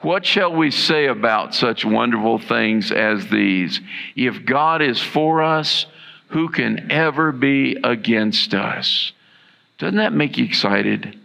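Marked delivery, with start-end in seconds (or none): 0.0-9.1 slow, deliberate scripture read aloud; reading together with the congregation, slow and measured; slow unison reading. Shown as a demonstration. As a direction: lead the group through it slowly. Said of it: "Read that with me".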